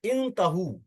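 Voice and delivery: इंतहू slowly, opening on "in"; initial short i. Shown as a demonstration. Teacher presents the command form, इंतहू begun with short "i". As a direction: draw out इंतहू with a long final "hu". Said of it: "अब देखिए".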